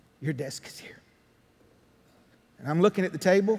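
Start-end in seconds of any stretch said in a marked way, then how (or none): 0.2-1.0 breathy, very soft, hushed whispered voice. Retelling what the Holy Spirit said: retelling a whisper. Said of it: "And he whispered to me".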